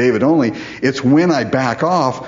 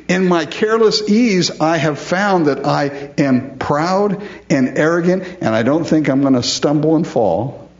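proud David; 4 semitones higher than usual. Retold or imitated. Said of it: "David voiced as proud".

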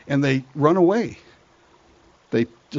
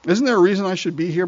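insistent inner thought; 5 semitones higher, faster than usual. Acted. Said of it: "he's thinking it".

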